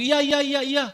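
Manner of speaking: high, loud, quick yeses; eager yes. Acted. Pak Tono eagerly agreeing to come, high and loud. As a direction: answer at once, keen and very high. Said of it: "Dia langsung".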